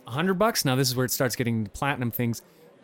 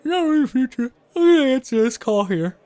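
radio host voice; 9 semitones higher, 7 dB louder than usual. Acted. Switching into host voice.

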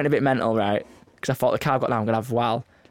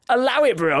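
mock pleading; 9 semitones higher than usual. Mock plea to judging drivers.

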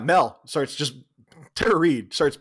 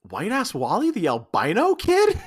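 "White ass Wally" asked, rising and higher, breaking into laughter; incredulous laughing; 7 semitones higher than usual. Acted. Josie recognizing her old classmate, laughing in disbelief.

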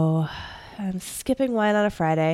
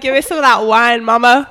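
pug voice; 2 semitones higher, 10 dB louder than usual. Pretend. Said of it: "She's like".

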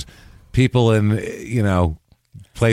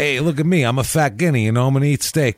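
lightly voiced, higher-pitched mobster; mobster bluster; 5 semitones higher than usual. Mobster rallying the table for steak, lightly voiced. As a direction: play up the eager steak-loving wise guy a little.

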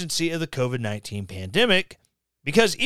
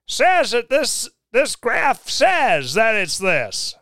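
higher, louder, slow mock-reverent voice; mocking a believer; 5 semitones higher, 3 dB louder, slower than usual. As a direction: parody a pious follower quoting scripture.

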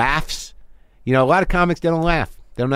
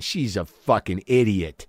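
lower, slow, under-breath scorn; muttered scorn; 5 semitones lower, 4 dB quieter, slower than usual. Shown as a demonstration. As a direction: sneer it quietly to yourself. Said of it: "I was talking to a made-up person".

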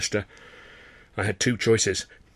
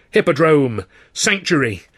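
excited cry; 5 semitones higher, 6 dB louder, slower than usual. A narrator's reading. Relieved cry at theatre sign.

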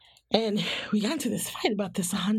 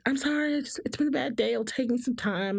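higher, lightly voiced sheepish apology; mock apology; 6 semitones higher than usual. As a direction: apologize to keep people happy. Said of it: "just be like".

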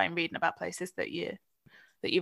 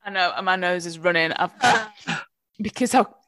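mouth full; 5 dB louder than usual. Real, not acted. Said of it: "my mouth's filled with chocolate fudge brownie and I can't breathe out my nose".

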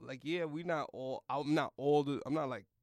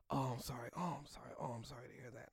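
soft imitation of sympathizers, fading quieter; mock pity; 10 dB quieter, faster than usual. Acquaintances consoling him after his rejection, soft mock pity. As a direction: murmur repeated condolences in imitation.

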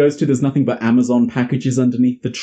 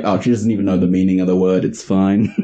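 much lower, quick brush-off; dismissive low grandma; 7 semitones lower than usual. Retold or imitated. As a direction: wave it away, low and fast.

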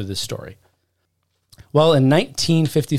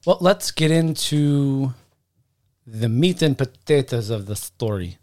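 slow, mock German accent; terrible fake German accent, drawn out; bad German accent. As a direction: ham up a poor German accent. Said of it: "That was a terrible German accent".

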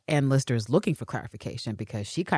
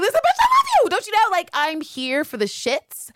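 far higher and louder, fired-up declaration; mock impassioned outburst; 14 semitones higher, 4 dB louder than usual. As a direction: belt it out like a diva's love rant. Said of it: "she's basically like".

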